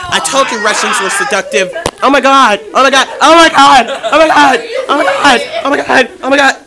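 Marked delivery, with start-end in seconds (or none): 2.0-6.5 loud, repeated exclamations; worked-up outburst, louder with each burst; excited exclaiming. Real, not acted. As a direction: exclaim it over and over, loudly. Repeated startled exclamations at others' antics.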